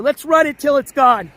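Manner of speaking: hoarse-voice defiance. Real, not acted. Streamer losing his voice but shouting on regardless. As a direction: push the voice anyway. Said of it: "I don't care".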